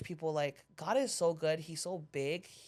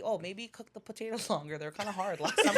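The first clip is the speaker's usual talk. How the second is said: laughing customer quote; 4 semitones higher than usual. Retold or imitated. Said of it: "We love to hear feedback".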